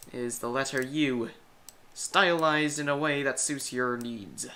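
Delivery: loud booming hype announcer. Acted. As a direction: proclaim it like an arena announcer. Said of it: "I had to get my announcer voice somehow".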